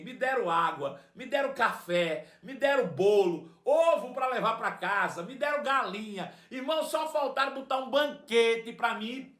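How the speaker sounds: ordinary delivery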